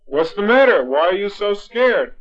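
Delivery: a startled, concerned farmer; alarmed questioning. Acted. Farmer to his frightened wife, alarmed questioning.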